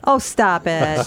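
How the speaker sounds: slow, drawn-out oh stop it; mock scolding. Real, not acted. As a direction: playfully drag it out. Teasing co-host.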